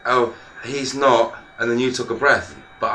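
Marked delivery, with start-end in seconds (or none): 0.1-1.4 drawn-out, slow hesitant start; slow retold quote. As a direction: stretch it out slowly, then stop. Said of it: "I said".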